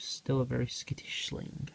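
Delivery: soft hushed whisper. Real, not acted. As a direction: whisper so the spider stays calm. Whispering near skittish spider.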